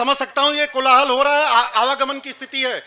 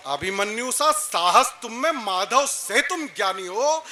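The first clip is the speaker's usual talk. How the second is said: poetry recitation; slower than usual. Acted. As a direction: recite praise of heroes in stately phrases. Recites verse on stage. (संयत स्वर में वीर रस काव्य पाठ)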